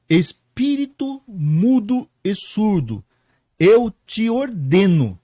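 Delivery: slow, firm order to the spirit; firm command. Acted. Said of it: "É uma ordem". (ordem firme e lenta ao espírito)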